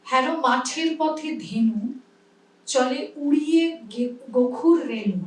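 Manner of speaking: কবিতা আবৃত্তি; poem recitation. Shown as a demonstration. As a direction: recite the poem line with a measured rhythm. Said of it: "আমরা কি বলি".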